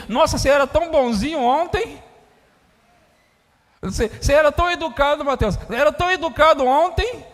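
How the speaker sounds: shocked parent. Pretend. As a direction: gasp in disbelief at the son. Parent shocked by a changed son.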